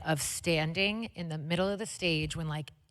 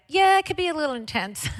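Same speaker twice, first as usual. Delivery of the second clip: imitating Betty; 10 semitones higher, 4 dB louder, faster than usual. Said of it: "But she was like".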